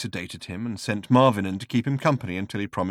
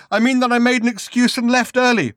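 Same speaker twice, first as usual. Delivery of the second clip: puzzled; 13 semitones higher, 8 dB louder than usual. Acted. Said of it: "with a puzzled frown".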